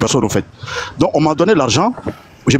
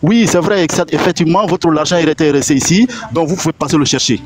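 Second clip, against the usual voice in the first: polite cashier; 3 semitones higher than usual. Retold or imitated. Cashier calling him back next morning, politely. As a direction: play the apologetic cashier.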